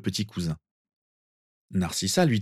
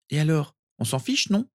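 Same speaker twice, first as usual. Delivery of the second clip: put-on higher, cheeky child's voice; dismissive small boy; 8 semitones higher than usual. Sirius to cousin about his mother, dismissive. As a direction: shrug it off like a little boy.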